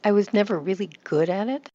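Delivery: "good" strong, "it" lighter though rising at the end; stress on GOOD. Shown as a demonstration. Coach corrects student's sentence, stress on "good". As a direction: punch "good", then lift pitch lightly on "it". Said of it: "give more volume to the adjective good".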